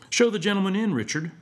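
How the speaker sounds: lightly softened courteous instruction; soft voice. A narrator's reading. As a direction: answer the waiter with smooth politeness. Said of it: "in a soft voice".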